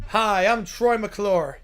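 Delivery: slow, drawn-out showbiz host; smooth slow actor intro; Troy McClure voice. Acted. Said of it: "we're auditioning".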